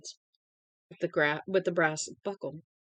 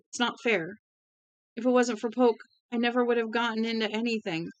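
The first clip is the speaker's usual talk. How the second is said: higher, loud begging through sobs; sobbing plea; 6 semitones higher, 3 dB louder than usual. A narrator's reading. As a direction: beg desperately, close to tears. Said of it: "Lloyd sobbed".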